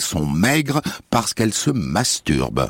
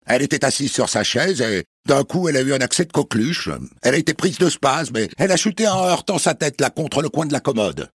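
headmistress voice; 5 semitones higher than usual. Acted. Headmistress explains fall.

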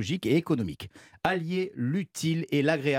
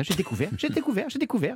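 mock proud; 8 semitones higher, faster than usual. Repeating a discovery, mock proud.

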